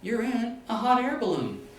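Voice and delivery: high, loud shouted reply; yelling up. Retold or imitated. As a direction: shout the obvious answer up to the sky. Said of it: "And the guy yells up".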